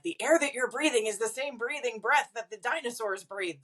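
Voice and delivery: lightly voiced preschool teacher, high and sing-song. Teacher explaining air to preschoolers, light sing-song. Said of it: "when I was teaching preschool".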